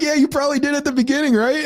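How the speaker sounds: high-pitched, laughing through the words; barely holding back laughter; laughing reply. Retold or imitated. Laughing while retelling own reply.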